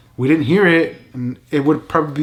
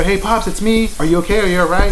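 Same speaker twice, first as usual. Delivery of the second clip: calling out; 4 semitones higher, 3 dB louder than usual. Retold or imitated. Calling through bathroom door.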